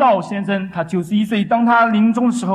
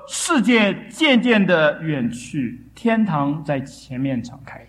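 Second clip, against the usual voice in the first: slow, drawn-out quotation; retold dreamy dying words; 2 semitones lower, slower than usual. Preacher retells a dying evangelist's last words, slow and dreamlike. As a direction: let the words drift slowly, as in a dream. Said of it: "好像在做夢一樣".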